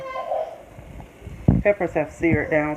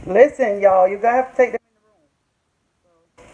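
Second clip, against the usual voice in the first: calling out; 3 semitones higher, 7 dB louder, faster than usual. Real, not acted. Calls out to family off camera.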